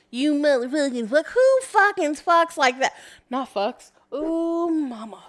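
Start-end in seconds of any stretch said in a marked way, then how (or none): 0.1-1.3 mocking his clumsy cursing, a bit louder; mocking imitation. Teasing a friend by imitating his curse, mock voice. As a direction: parrot his curse back to tease him. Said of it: "You don't even know how to properly curse".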